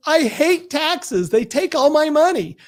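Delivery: put-on high, whiny child's wail, stretched out; crying little boy. Little boy crying to his mother over the game, high whiny wail. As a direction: whimper it like a little kid who just lost at Monopoly. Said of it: "he goes".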